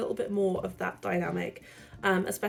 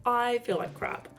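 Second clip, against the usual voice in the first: hoarse, croaky sick voice; croaking like a frog, unwell. Real, not acted. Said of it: "my croaky frog voice".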